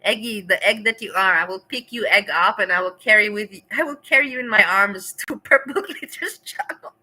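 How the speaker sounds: loud laughing mock threat; playful loud tease. Real, not acted. Streamer to Eggy, loud laughing tease. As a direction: carry him off, laughing.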